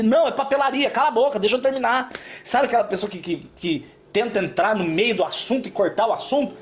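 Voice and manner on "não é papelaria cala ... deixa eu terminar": irritated retort. Retold or imitated.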